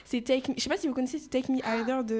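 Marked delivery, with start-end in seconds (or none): 1.3-2.0 English title in a heavy French accent. Real, not acted. Guest naming her favourite song, French-accented English. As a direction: say "Take Me Either" with French sounds. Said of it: "Désolée, mon accent est nul".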